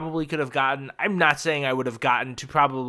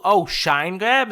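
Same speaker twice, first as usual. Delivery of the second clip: mock yell; 4 semitones higher, 5 dB louder, slower than usual. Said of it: "I just, like, yell".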